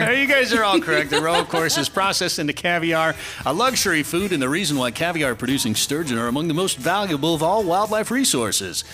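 upbeat quiz host voice; game show voice. Pretend. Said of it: "This is my game show voice".

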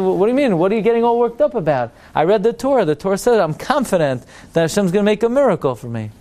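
mildly indignant, quick and pushed up; indignant protest. Acted. Man with comic book answers worshipper in shul, mildly indignant. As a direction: protest as if it's obvious.

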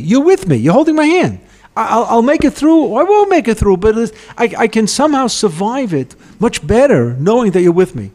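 impassioned first-person plea, pitched high; David HaMelech. Acted. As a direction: speak the psalm as a fervent personal declaration. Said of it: "How does David HaMelech say".

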